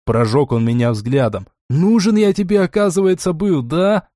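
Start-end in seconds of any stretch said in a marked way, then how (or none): 1.7-4.1 high-pitched, wound-up reproach; getting worked up. A narrator's reading. Яхиль reproaches the one who bet on him, worked up. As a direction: accuse him, pitch raised in agitation. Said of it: "завёлся Яхиль".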